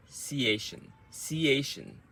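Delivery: ciation as one quick unit, falling. Shown as a demonstration. Coach drilling the word's end, quick falling ciation. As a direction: say ciation briskly, run together. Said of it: "So that's quicker".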